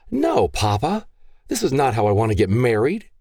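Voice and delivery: put-on high, pleading young woman's voice; pleading daughter. Daughter begging her gun-waving father, high and pleading. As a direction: beg your father to spare him.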